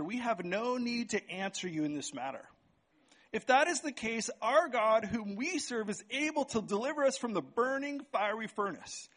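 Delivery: measured reading of the text aloud; scripture reading. Acted. Preacher reading scripture to the congregation, measured. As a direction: read the passage out to the congregation. Reads the Daniel passage aloud.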